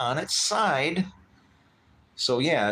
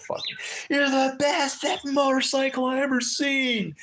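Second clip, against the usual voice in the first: retold shout; 13 semitones higher than usual. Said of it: "he was screaming it".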